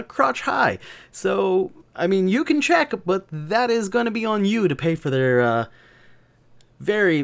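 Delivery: mock-courteous, rising high as it goes; polite warning. Kilted man warning grandma off, polite and pointed. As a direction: sweetly warn her off, all manners. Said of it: "I'm just like".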